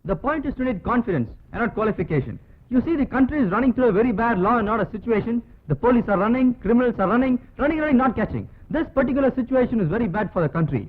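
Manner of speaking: slow, declaiming film hero speech; rehearsing a speech. Pretend. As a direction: deliver it like a grand screen monologue. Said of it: "நான் என் வீட்ல நடிக்கிறேன்". (மிக மெதுவான மேடைப் பேச்சு போல ஒத்திகை)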